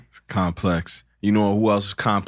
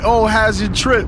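high, slow, sing-song imitation of well-wishers; mildly mocking someone asking about a trip; mocking the greeters; 12 semitones higher, 5 dB louder than usual.

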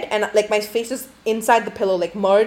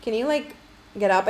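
timid polite; 3 semitones higher, 4 dB quieter than usual. Retold or imitated. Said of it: "I didn't say it that way".

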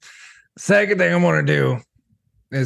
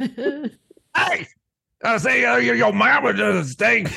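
much higher, nerdy nasal-free squeak of a voice; Double D's voice; 10 semitones higher, slower than usual. Acted. Goat insults the farmers' mother in Double D's voice. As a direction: talk like a timid Double D. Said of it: "stuck with Double D's voice".

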